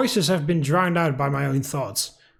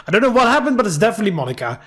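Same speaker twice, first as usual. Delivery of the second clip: alarmed; 4 semitones higher, 4 dB louder, much faster than usual. Real, not acted. Player alarmed at hospital.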